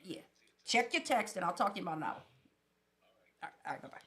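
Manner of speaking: hushed phone call; quick quiet call, putting them off; dodging a caller. Real, not acted. Answers phone mid-podcast.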